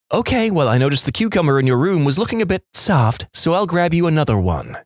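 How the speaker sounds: a hint of a sly mother needling her son; mock sweet mum. Mum teasing her son in front of his friend, lightly sly.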